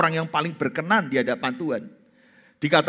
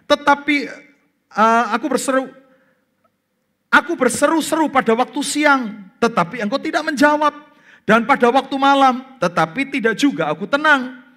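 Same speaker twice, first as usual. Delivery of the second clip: desperate crying out; 7 semitones higher, 3 dB louder than usual. Pretend. David crying day and night.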